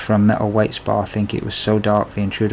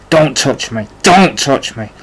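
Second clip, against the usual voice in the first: louder, shouted don't touch me; screamed; 4 semitones higher, 6 dB louder, slower than usual. A narrator's reading. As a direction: push him off with a raw yell. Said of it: "I screamed".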